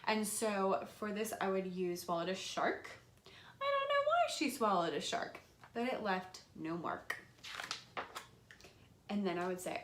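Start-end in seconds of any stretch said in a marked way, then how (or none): 3.3-7.2 reading with actions. Shown as a demonstration. Teacher shows adding actions for younger kids. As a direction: act it out big for young kids. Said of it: "you can totally add in actions".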